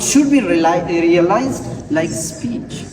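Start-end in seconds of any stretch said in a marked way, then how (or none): 2.1-2.8 "speech" with no puff on the P after S; unaspirated P. Shown as a demonstration. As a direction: keep the P in "speech" free of any air puff. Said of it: "then they will be unaspirated".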